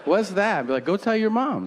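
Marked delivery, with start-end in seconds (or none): 0.0-0.7 put-on high-pitched child's question; curious kid. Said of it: "And the kid will be like". 0.8-1.7 high-pitched egging-on; mock urging. Retold retort to a kid.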